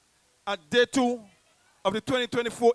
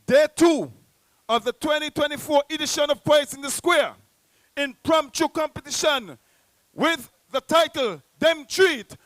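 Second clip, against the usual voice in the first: higher and louder, building to a long stretched shout on the name; big winner reveal; 5 semitones higher, 7 dB louder than usual. Real, not acted. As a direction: drag out the winner's name like a ring announcer.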